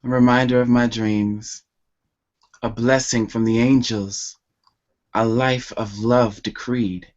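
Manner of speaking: measured spoken-word delivery, pausing after each phrase; grateful, intimate poetry reading with lifted key phrases; love poem recital. Acted. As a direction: recite a love poem line by line, letting line endings fall.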